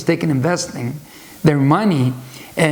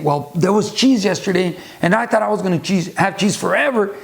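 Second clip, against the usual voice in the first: upset mouse; 4 semitones higher than usual. Retold or imitated. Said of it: "upset because he was running out of cheese".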